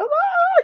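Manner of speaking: very high shocked yelp; a jumpy frightened squeak; startled yelp. Retold or imitated. (grito agudo de susto)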